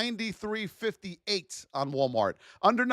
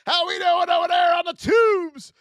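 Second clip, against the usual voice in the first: high, loud hello to the crowd; rally the audience; hyped greeting; 9 semitones higher, 5 dB louder than usual. Real, not acted. Streamer loudly greeting viewers on the tubes.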